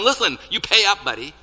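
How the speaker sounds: loud, high strong-arm threat; acted bully demanding money; threatening demand. Servant choking the man who owes him, threatening. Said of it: "He's choking him and telling him".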